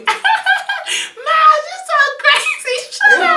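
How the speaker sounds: high, laughing mom voice; mother laughing at her son's joke; imitating mom. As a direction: play the giggling mother teasing her son.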